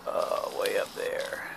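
soft whisper near the nest. Real, not acted. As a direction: hush so the bird isn't disturbed. Quietly showing bird's nest.

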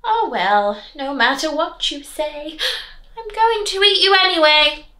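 rising, menacing wolf; wolf threatening. Acted. Wolf deciding to eat the girl anyway, menacing. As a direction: build up to the threat. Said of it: "wolf continues speaking".

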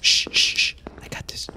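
hushed urgent whisper; whisper yelling. Real, not acted. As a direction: whisper so the monster can't hear. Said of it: "Why are we whispering?".

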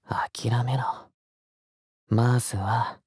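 breathy hushed command; whisper. Acted. Lover telling squirming listener to give up, whispered. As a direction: whisper it right into their ear.

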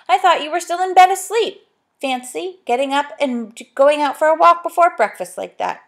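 a fond, surprised mother. Acted. Mother voiced in story.

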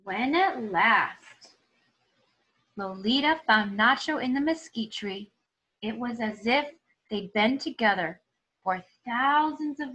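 lively, expressive storybook reading; reading to children. Acted. Teacher reading a story aloud to her students, expressive storytelling. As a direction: tell it like a picture book for the class. Reads picture book aloud.

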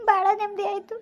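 crying with relief; tears of relief. Acted. Mother relieved that her daughter called her mom, crying. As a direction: let the happy tears come. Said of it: "ಆಯ್ತು, ಅಳ್ಬೇಡ".

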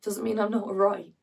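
hushed, defensive stage delivery; subdued, defensive monologue character. Acted. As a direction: quietly stand your ground. Performs monologue from Lungs.

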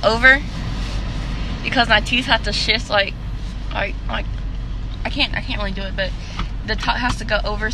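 talking with finger on lip; lip held down by finger. Real, not acted. Seen 0: Hand touches mouth, then finger pulls lower lip to show braces.

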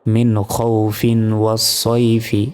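মিন খৌফিন ওয়া সয়ফি run together, no long hold; joined without stopping. Shown as a demonstration. Teacher showing no stop, মিন খৌফিন ওয়া সয়ফি linked unbroken. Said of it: "যদি না থামি তাহলে কিন্তু কোনো টান হবে না".

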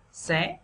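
"xé" drawn upward in a sắc tone; rising sắc tone. Shown as a demonstration. Teacher adding consonants for learners, rising tone. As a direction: lift "xé" from start to end. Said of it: "đặt đúng dấu sắc".

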